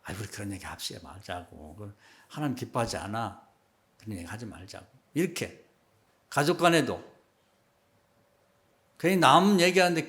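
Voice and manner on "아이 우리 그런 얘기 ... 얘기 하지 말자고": soft, lower-pitched gentle plea; inoffensive, gentle dissuading. Retold or imitated. Elder to gossipers so nobody feels bad, gently dissuading. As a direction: talk them out of it without offending. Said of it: "기분 나쁘지 않게".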